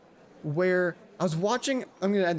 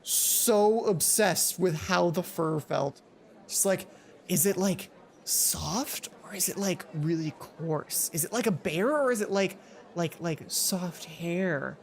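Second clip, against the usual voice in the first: druid's obsession; slower than usual. Retold or imitated. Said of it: "the druid was just".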